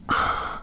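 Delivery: soft voiceless sigh. Real, not acted. Vlogger swooning over a book's hero, soft sigh. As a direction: sigh out quietly.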